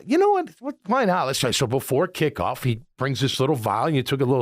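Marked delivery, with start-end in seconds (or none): 0.0-1.5 eager agreement. Retold or imitated. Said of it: "I go".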